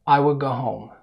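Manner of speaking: "will" said without its L, at natural speed; L dropped in will. Shown as a demonstration. Teacher repeats the middle speed, showing the L of "will" vanishing. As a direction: run "I will go" together, swallowing the L. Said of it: "ما ظهرش صوت اللام".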